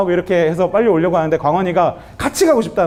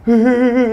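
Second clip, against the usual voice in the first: mock boo-hoo wail, pitched up; imitated child's sobbing; 4 semitones higher than usual. Son crying after dad yells, imitated sobbing. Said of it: "광원이가 눈물을 펑펑 흘리면서".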